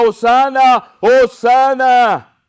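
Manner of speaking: loud, high, drawn-out acclamation; crowd shouting. Acted. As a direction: cry it out like a crowd, each one held long. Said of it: "la gente gritaba".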